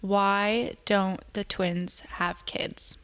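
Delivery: very slow, hushed-edged question; dramatic reveal. Real, not acted. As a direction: draw out the big question word by word.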